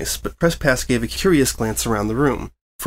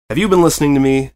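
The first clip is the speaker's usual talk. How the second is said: louder, fast and higher, fed up; huffy demand; 4 semitones higher, 6 dB louder, faster than usual. Acted. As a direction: snap it out at the distracted reporter. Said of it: "Etta huffed".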